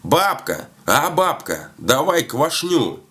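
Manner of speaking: high, drawn-out call. A narrator's reading. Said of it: "Подъехал к дому и кричит". (протяжно зовёт бабку высоким голосом)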